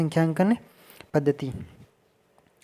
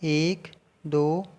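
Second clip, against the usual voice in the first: counting slowly; much slower than usual. Shown as a demonstration. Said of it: "जैसे पहले तो गिनेंगे".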